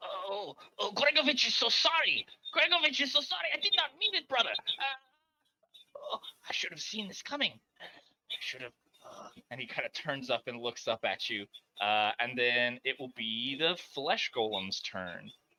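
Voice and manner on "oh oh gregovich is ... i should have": very high-pitched, swooping, swoopy character voice. Voicing Gregovich as he shakes himself free: Gregovich character voice. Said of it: "shake himself free and says".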